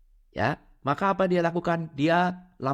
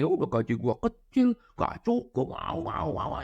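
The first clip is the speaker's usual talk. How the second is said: whiny complaint; slower than usual. Acted. Worker grumbling about low pay.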